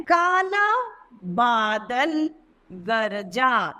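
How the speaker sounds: put-on slow, stretched reading for small children; slow reading aloud. Shown as a demonstration. Teacher reading a sentence slowly to pupils. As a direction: read the sentence slowly, word by word. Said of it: "कुछ वाक्यों को और हम पढ़ते हैं".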